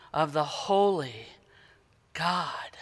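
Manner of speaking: whispered God, hushed; reverent whisper. Real, not acted. Preacher hushing before the holy God, whispered. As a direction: breathe the word in awe.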